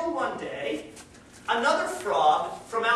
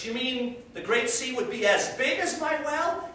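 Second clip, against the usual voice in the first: mildly nervous, raised-pitch question; nervous frog; 5 semitones higher than usual. Acted. Well frog questions the sea frog, mildly nervous. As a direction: ask it higher, a touch rattled. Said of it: "the frog in the well is getting nervous".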